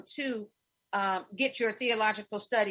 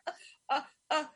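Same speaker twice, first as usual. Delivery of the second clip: quiet, halting stammer in mock alarm; softly stall, as if put on the spot; imitating wide-eyed hesitation; 4 semitones higher, 3 dB quieter, much faster than usual. Student balking at performing at church, retold wide-eyed hesitation. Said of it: "have her eyes get big".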